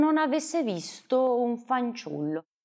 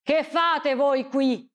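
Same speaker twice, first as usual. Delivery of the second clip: a touch of a slow, suspicious challenge; mildly stern, higher and slow; mild annoyed question; frowning demand; 6 semitones higher, 3 dB louder, slower than usual. Acted. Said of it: "disse l'uomo corrucciato".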